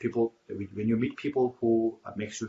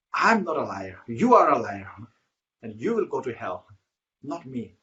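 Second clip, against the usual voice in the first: hermit snapping back, louder on the first lines; retold heated denial, turning the insult back; angry retort; 2 semitones higher, 5 dB louder than usual. Hermit, insulted by a stranger, shouts back in anger. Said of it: "The hermit got very angry and he said".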